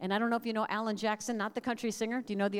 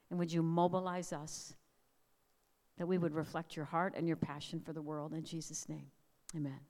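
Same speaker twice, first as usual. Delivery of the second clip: prayer. Acted. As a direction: pray over them with measured pauses. Opening prayer over congregation.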